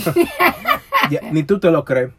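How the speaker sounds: high, loud laugh through the words; laughing at his partner's soda joke. Real, not acted. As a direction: laugh out the reply. Laughing reply.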